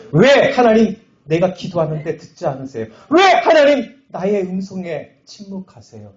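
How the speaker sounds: high-pitched, impassioned cry of "why"; acted angry outcry. Pastor replaying his prayer to a silent God, angry outcry. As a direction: cry out at God in re-enacted frustration. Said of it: "너무 화가 나더라고요".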